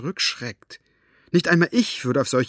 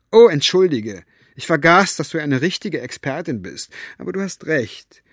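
mocking; 3 semitones higher, 4 dB louder than usual. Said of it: "einen spöttischen Blick".

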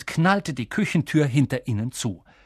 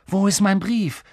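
demanding; 6 semitones higher, 3 dB louder than usual. Acted. Boy confronts uncle about letter.

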